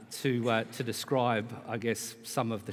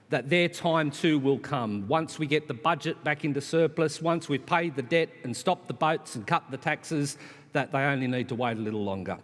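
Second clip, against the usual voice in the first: raised, emphatic podium oratory; forceful rally-speech delivery; impassioned political speech; 5 semitones higher, 6 dB louder than usual. Real, not acted. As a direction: press the argument on the audience.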